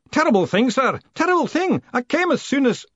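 put-on high, loud, agitated old man's voice; breathless old George rushing up; flustered old postman. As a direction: babble it out in a panic. George hobbling up in alarm.

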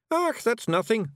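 high, loud wee Scots warrior voice; Scottish Feegle Rob. A narrator's reading. Rob Anybody brags to Miss Level, high Scots Feegle. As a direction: play a cocky little Feegle, high and brash.

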